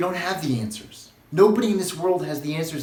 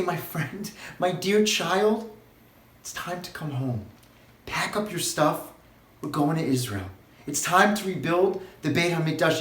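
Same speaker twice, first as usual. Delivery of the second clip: tender prophet's call. Acted. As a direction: speak as a loving prophet inviting his children home, gently. Prophet voiced calling people home.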